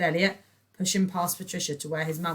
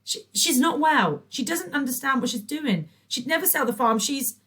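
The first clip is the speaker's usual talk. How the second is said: pleading; 10 semitones higher, 8 dB louder than usual. A narrator's reading. Elliot pleading.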